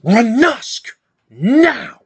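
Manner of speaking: a high, loud sharp call of his name; urgent call. Acted. Mother ordering her son out from under the bed, a high, loud urgent call. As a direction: demand he come out now.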